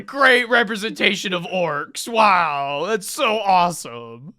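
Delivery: exaggerated mock enthusiasm; sarcastic praise. Real, not acted. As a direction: gush as if impressed, meaning the opposite. Sarcastic praise of orc portrayal.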